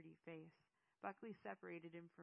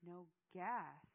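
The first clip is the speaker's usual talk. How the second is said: louder, incredulous echo; raised-voice disbelief; yelled question; 9 dB louder than usual. A narrator's reading. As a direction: throw the question back loudly. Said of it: "Eamon yelled".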